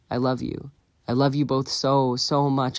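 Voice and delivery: choked-up, rising love; tearful declaration. Acted. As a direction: push the words through emotion. Son's emotional declaration.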